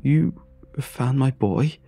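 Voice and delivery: crying father. Acted. A grieving father crying into the phone. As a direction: cry out in disbelief. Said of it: "cried the voice from the phone".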